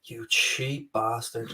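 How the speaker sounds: slow, soft, laughing jibe; laughing insult. Real, not acted. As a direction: mutter it through a laugh. Mock insult through laughter.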